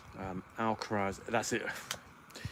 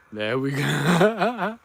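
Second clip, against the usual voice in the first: much higher and louder, stretched slowly for the dog; high, drawn-out pet talk; 6 semitones higher, 10 dB louder, much slower than usual. Real, not acted. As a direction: gush at the dog like it just did a trick. Praising dog after a roll.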